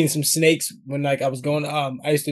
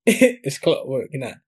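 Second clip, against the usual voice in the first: London English accent, drawn out slowly; 3 dB louder, slower than usual. Shown as a demonstration. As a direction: show off a slow British accent. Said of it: "I could do that. I could do it".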